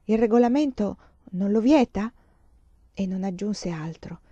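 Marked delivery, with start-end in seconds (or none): 0.0-2.1 puzzled, doubtful question; perplexed echo. Acted. Mother echoing the nun's rule, mildly perplexed. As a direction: repeat it back, not quite believing. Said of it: "Perplessa Emanuela chiese".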